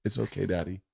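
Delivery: soft, tender permission; softly reassure, as a child to a parent; retold gentle consoling. Dad voicing his daughter consoling him, soft and tender.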